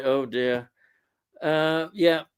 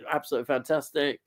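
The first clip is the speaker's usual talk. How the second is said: quick whispered aside; whispering; 2 semitones lower, 6 dB quieter, much faster than usual. Real, not acted. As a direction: breathe it out as a whisper. Quiet aside on the film.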